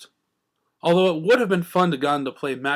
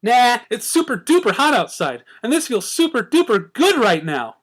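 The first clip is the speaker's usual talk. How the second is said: giggly; 6 semitones higher, 5 dB louder than usual. Acted. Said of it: "Pinkie giggled".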